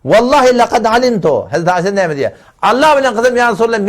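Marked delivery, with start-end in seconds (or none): 0.1-1.5 quoting a raised-voice protest, higher; mildly raised, high-pitched retold oath. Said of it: "katıdan öngüsünün geliyor diye". 2.6-3.9 retold protest, pitched up; mildly raised voice, higher in pitch. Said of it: "katıdan öngüsünün geliyor diye".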